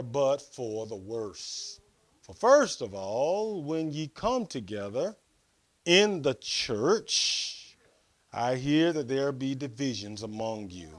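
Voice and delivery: measured Bible reading with weighty pauses; scripture reading. Real, not acted. Preacher reading Corinthians to the congregation, measured scripture reading. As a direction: read scripture out deliberately, phrase by phrase.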